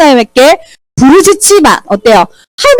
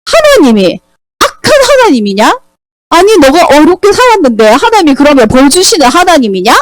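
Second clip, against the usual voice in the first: indignant Elihu; 4 semitones higher than usual. Acted. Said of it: "엘리후가 뭐라 했어요".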